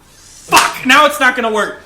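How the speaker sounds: loud high mock panic shouts. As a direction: yell like devs who just noticed. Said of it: "they're like".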